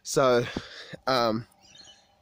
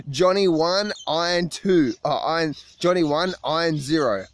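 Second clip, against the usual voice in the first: gleeful mock scoreboard; 3 semitones higher, 3 dB louder than usual. Mock scoreboard boast, laughing.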